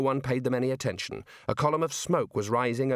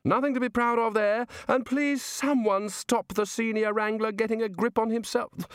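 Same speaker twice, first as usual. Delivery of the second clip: blustering Arch-Chancellor; 10 semitones higher than usual. Acted.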